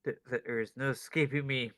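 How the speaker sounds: hammy evil genius gloating; mad scientist voice. Acted. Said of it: "kept it the mad scientist act".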